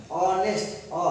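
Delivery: ଅନେଷ୍ଟ begun on an open O vowel, then that vowel alone; honest with silent H. Shown as a demonstration. Teacher isolates the first sound of honest, H silent. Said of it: "ହନେଷ୍ଟ କହୁଛେ ନା ଅନେଷ୍ଟ କହୁଛେ".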